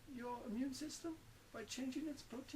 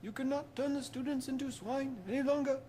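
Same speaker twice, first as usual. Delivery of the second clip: forceful rebuke to the villain; stern command; 8 dB louder than usual. Acted. Dumbledore confronts Voldemort.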